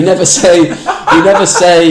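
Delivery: breaking into laughter mid-phrase; real giggle while saying it; laughing. Real, not acted. Laughing mid-sentence about sex talk.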